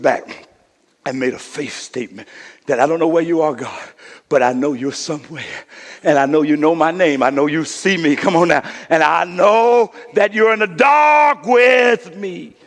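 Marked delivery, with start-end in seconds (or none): 2.8-12.6 prayer building to a cry; building preacher's cry. Acted. Quoted faith statement building up.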